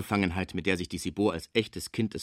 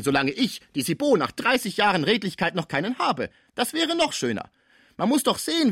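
a gossiping concierge working herself up; ranting concierge; 9 semitones higher than usual. Acted. Cibot's long indignant rant.

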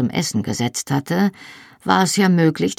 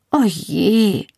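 gespieltes Jammern; 5 semitones higher than usual. A narrator's reading. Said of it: "jammerte ich".

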